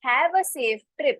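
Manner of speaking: very slow, clear English demo; slow model sentence. Shown as a demonstration. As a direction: spell it out slowly for learners. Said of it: "तो आप उसको क्या बोलोगे". (बहुत धीमे, साफ़ अंग्रेज़ी में)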